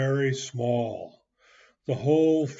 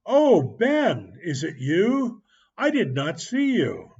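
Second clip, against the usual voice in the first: higher and louder, mock surprise; feigned surprise; 4 semitones higher, 4 dB louder than usual. Tom pretends to notice Ben, hammed-up surprise. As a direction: pretend you just noticed him.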